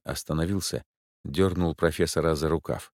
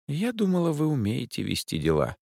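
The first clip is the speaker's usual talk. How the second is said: high, cold reproach; a sniffy put-down; disdainful lady; 8 semitones higher than usual. A narrator's reading. The client sneers at the detectives.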